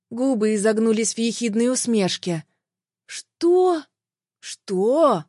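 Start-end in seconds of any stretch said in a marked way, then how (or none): 3.1-5.2 angry questioning. A narrator's reading. Jealous man confronts the woman.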